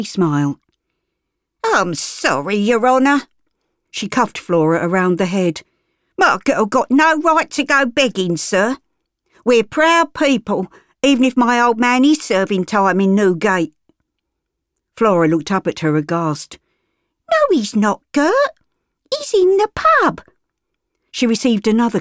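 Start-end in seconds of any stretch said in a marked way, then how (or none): 1.6-13.7 higher, wheedling cockney voice; a sly beggar woman pleading proud. Acted. Gert fawns to the gentleman, wheedling cockney. 17.3-20.2 put-on high, protesting girl voice; a blunt child blurting the truth; street girl. Flora corrects Gert, high and blunt.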